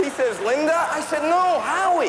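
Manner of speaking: high cartoon kid voice telling a story; squeaky storyteller voice for the whole bit; Bobby voice. Stand-up clip, high voiced.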